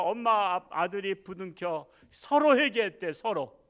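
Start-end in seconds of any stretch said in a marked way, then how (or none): none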